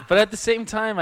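laughing through words. Real, not acted. Laughing while speaking.

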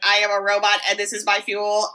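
lightly imitated self-declared robot, even pitch; hint of a robotic impression, held level; impression of co-host. Retelling a shouted boast to co-host, light impression. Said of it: "is that an impression of me".

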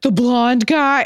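high, slow mock confusion; puzzled echo. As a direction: drag it out, baffled. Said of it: "everyone was like".

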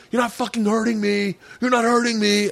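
high-pitched yell without full volume; mock defiant yell. Dreamer yelling at the electric guy, mock defiant yell. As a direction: yell it through the shock, held back. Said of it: "I kept yelling to the guy".

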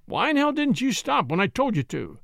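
a policeman's rising, angry demand. Acted. Policeman confronts the boy who ignored him, angry demand. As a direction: scold the driver from up high. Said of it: "demanded the voice".

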